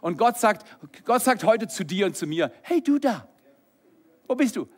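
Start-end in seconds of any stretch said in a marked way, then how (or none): 2.6-4.7 high-pitched searching call. Acted. God calling to you and me, searching. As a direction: call out as if seeking someone.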